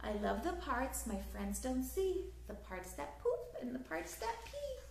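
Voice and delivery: lively, sing-song storybook reading; reading to children. A narrator's reading. Teacher reading a picture book aloud to children, lively storytelling. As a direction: read it like bedtime story time for little ones.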